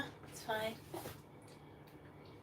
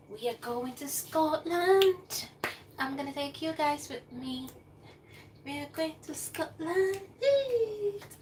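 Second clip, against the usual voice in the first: higher, slow, thrilled; excited announcement; 6 semitones higher, slower than usual. Real, not acted. Vlogger telling viewers about the Scotland trip, thrilled. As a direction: draw it out with glee.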